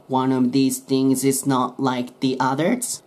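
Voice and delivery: each linked sound drawn out slowly; slow demo reading. Shown as a demonstration. Teacher slowly models a song line for learners. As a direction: read the lyric slowly for students, linking words. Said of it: "単語末のt消して".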